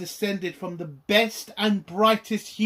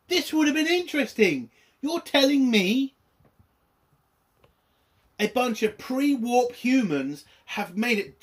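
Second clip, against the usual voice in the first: angry rant; 5 semitones higher than usual. Real, not acted. Fed-up reviewer venting at the show's writers, angry. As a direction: vent the disbelief at the writers. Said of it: "I'm fucking pissed off".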